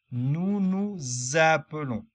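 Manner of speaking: "nous appelons" linked with a clear z sound, "nouz appelons"; liaison demo. Shown as a demonstration. Teacher showing the liaison to learners, carefully linked. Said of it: "avec la première voyelle".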